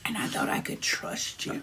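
whisper. Pretend. Mock betrayal after bad candy.

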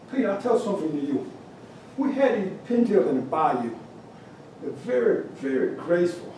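lightly voiced Cajun judge; Cajun accent. Cajun judge begins critiquing the carver's bird, Cajun accent. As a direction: imitate an easygoing Cajun critique. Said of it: "try to do my Cajun accent".

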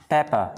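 "pepper" ending in an open "puh", no r; silent final R. Shown as a demonstration. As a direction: say "pepper" without sounding the last r. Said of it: "Chữ R sau không phát âm".

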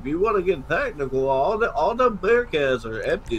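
put-on slurred words, drunk; slurring drunk. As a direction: slur every word like you're wasted. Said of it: "You're slurring all your words".

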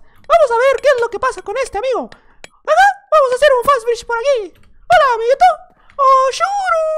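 very high squeaky cartoon mouse voice; high-pitched falsetto cartoon host; Mickey Mouse. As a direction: play a chirpy cartoon mascot greeting little friends. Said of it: "voy a hablar como si fuera Mickey Mouse".

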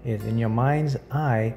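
measured guided visualization with long pauses; unhurried meditation guide. Acted. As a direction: lightly guide the listener through each image, pausing between phrases.

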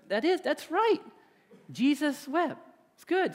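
put-on chuckling teacher humoring the girl; amused teacher. Teacher voiced, laughing along.

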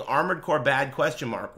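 quick recited quote inside a heated rant; quoting a viewer. Retold or imitated. Streamer throws viewer's message back, brisk quoting. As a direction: rattle off the viewer's message, falling on "question mark". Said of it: "you tagging me saying".

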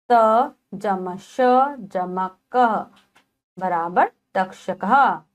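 put-on very slow, piece by piece for children; slow spelling out. Shown as a demonstration. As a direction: spell each part slowly, teacher style. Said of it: "teacher spells word parts".

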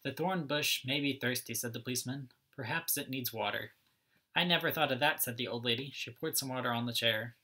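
lively storybook read-aloud, each character lightly voiced; reading to children. A narrator's reading. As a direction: read it like story time for little kids.

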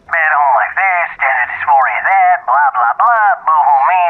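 sarcastic, stretched-out list of woes; dismissive mockery. Mocking someone's troubles.

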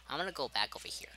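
whispered to self; hushed self-talk. Real, not acted. Repeats line, whispered first.

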